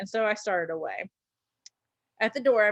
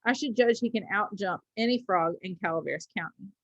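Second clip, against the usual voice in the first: easy and careless. Acted. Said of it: "easy and careless".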